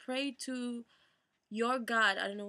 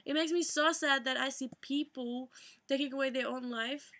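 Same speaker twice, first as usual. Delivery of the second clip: tearful; 3 semitones higher than usual. Real, not acted. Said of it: "I'm emotional".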